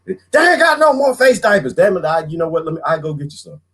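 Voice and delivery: a hint of a fed-up woman; mock angry shopper. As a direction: grumble about no masks. Angry shopper about masks.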